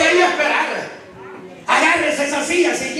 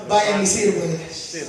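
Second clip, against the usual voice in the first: lower, slow, soft command; gentle command; 8 semitones lower, 4 dB quieter, slower than usual. Retold or imitated. Jesus sending the disciples to serve, low slow command. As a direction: hand it over quietly. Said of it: "les dice a los discípulos".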